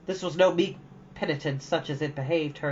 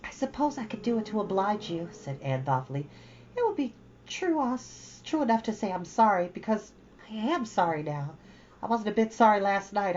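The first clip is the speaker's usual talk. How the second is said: put-on higher girlish voice, earnest and ashamed; girl Anne; 6 semitones higher than usual. Anne confessing her anger to Matthew, higher girlish voice. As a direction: pour it all out to him, ashamed then willing. Anne's long speech.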